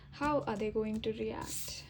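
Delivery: whispered question to the cards. Real, not acted. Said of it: "unvoiced whisper".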